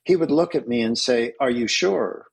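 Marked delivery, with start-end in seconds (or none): 1.4-2.3 put-on light Arabic accent, gently questioning; a hint of an Arabic accent, doubtful. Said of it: "imagine that with a little bit of an Arabic accent".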